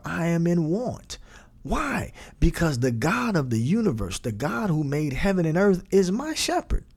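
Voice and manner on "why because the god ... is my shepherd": rising excitement. Real, not acted.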